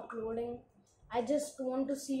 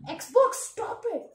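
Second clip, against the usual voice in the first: loud, slow annoyed yell; loud slow yell to stop it; shouting at Xbox; 9 semitones higher, 7 dB louder, slower than usual. Real, not acted. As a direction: snap it at the console. Yelling at the console.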